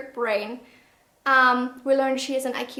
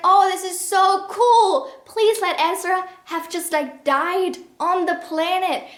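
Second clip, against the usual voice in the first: excited hoping; 4 semitones higher than usual. Retold or imitated. The reviewer recalling her hopes while reading, eager and excited. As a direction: beg for the twist to be true. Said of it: "I was like".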